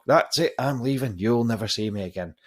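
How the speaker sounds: loud, high retold yell that quickly settles; parting angry shout. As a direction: storm out on a final shout. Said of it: "And he just lost it".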